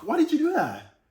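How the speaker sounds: sharp, high, accusing why; snapped accusing question; harsh accusing tone. Shown as a demonstration. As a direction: demand it like an accusation. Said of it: "look at the tonality".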